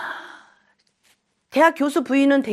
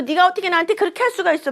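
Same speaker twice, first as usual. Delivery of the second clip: imitating crying wife; 7 semitones higher, faster than usual. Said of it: "이렇게 울고".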